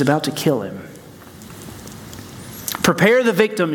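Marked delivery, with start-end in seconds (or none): 2.8-3.7 sharp, higher witch command. A narrator's reading. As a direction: snap it out like a cold queen. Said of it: "she says".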